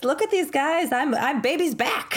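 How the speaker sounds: high, thrilled burst of joy; excited. Retold or imitated. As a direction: gush like she is back in the spotlight. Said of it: "to her, that was".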